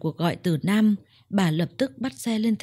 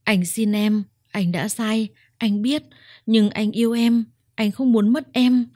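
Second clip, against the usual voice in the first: tearful pleading; 3 semitones higher, 3 dB louder than usual. Acted. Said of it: "nước mắt chảy dài".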